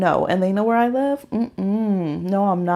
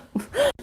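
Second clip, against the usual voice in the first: high laugh; 5 dB quieter than usual. Real, not acted. Laugh after joke.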